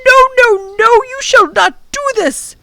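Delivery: high, loud desperate cry; bellowing in dismay. A narrator's reading. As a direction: refuse it with everything you have. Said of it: "the professor bellowed in dismay".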